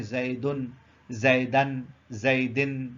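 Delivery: زیدن said three ways: "zaidun", "zaidan", "zaidin"; walk through the three case endings of زیدن; case endings shown. Shown as a demonstration. Teacher demonstrates case endings of زیدن to students. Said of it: "یہ جو آپ کہتے ہیں".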